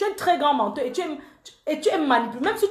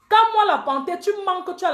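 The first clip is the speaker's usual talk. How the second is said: defiant shout; 7 semitones higher, 4 dB louder than usual. Real, not acted. Angry rant, self-proclaimed panther.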